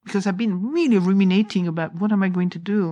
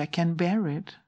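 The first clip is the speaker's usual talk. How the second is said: low-key little voice; 6 dB quieter than usual. Retold or imitated. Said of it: "a little voice came".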